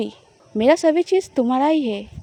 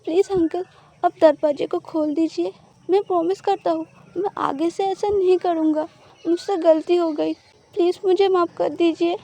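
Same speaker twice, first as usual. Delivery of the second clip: higher, pleading sob in his sleep; crying voice; 4 semitones higher than usual. Acted. Husband overhears wife crying in her sleep, tearful pleading. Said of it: "रोने वाला voice में बोल रहा था".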